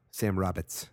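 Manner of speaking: Boston accent. Shown as a demonstration. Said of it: "That's my Boston accent".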